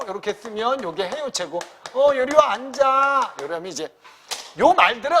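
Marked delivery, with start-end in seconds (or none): 1.9-3.3 casual friendly. Shown as a demonstration. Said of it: "친근감을 좀 주거든".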